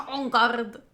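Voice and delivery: "On garde" said with a French-ish nasal on; ninja mispronunciation. Retold or imitated. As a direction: quote "On garde" like a ninja taunt. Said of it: "says the ninja".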